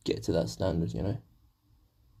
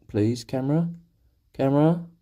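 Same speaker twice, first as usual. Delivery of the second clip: louder, higher call to the camera; 4 semitones higher, 4 dB louder than usual. Real, not acted. Painter calling to his camera to focus, rising call. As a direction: raise the voice to get the camera's attention.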